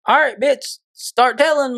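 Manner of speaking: high-pitched, insistent mock prodding; retold urgent prodding. Teen in mom's silent car prods friend to confess, retold urgent prodding.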